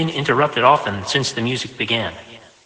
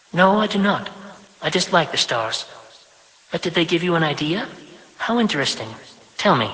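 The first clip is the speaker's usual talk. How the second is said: higher, prim voice of a self-important mother; higher, brisk mother granting her son five minutes; busy mother, briskly obliging; 5 semitones higher than usual. Acted. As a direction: fit your son into a tight schedule, higher. Vashti dismissing the stars.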